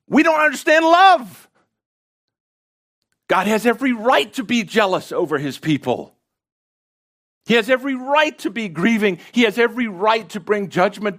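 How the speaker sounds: high, full-force preaching, peaking in shouts; impassioned preaching. Real, not acted. Preacher challenging listeners that jealousy is right, impassioned and high.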